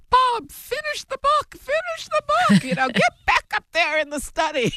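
put-on high-pitched mother's voice with a British accent; slight British accent. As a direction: nag him in a light British accent. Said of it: "she had a slight British accent".

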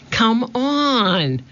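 high, pressing call from a distance; a girl shouting to her brother from the treehouse; urgent shout. A narrator's reading. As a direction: yell at him to hurry up. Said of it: "Annie was shouting".

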